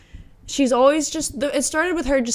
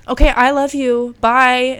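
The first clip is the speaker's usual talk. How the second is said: imitating gushing goodbye; 4 semitones higher, 7 dB louder, slower than usual. Car hop's flustered goodbye, imitated.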